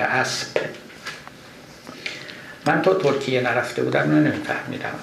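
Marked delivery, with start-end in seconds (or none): 0.0-0.5 اسب said as asp, with a p in place of the b; Turkish-style p. Shown as a demonstration. Teacher showing the old spelling of the word, اسب said asp. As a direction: say اسب ending in a clear p sound. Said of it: "با پ نوشته شده".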